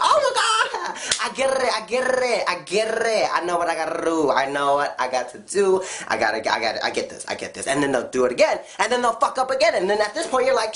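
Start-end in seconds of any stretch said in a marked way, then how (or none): 0.0-7.7 mock overconfident. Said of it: "So they'll be like".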